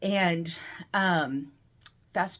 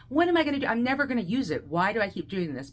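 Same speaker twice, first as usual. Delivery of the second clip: mock anguished complaint, starting high; retold distress; 4 semitones higher, faster than usual. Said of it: "I would cry. It was trauma".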